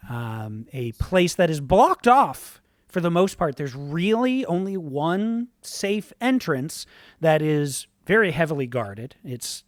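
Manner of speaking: steady storytelling narration with only a light shift from chat; GM scene setting. A narrator's reading. Game master sets the scene for the players, calm storytelling.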